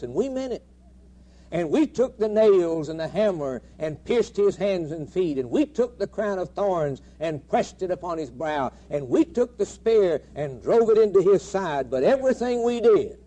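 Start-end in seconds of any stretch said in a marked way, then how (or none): 1.5-13.2 building preaching climax. Acted. Preacher to congregation, building louder. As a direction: drive each "we took" harder.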